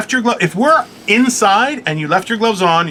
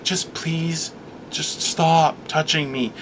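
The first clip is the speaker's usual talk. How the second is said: pleading; 2 semitones lower, 9 dB quieter, much slower than usual. Retold or imitated. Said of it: "And I'm just like".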